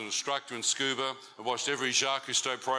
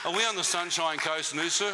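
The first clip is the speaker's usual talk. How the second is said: teasing question; 5 semitones higher than usual. Real, not acted. Teasing the audience.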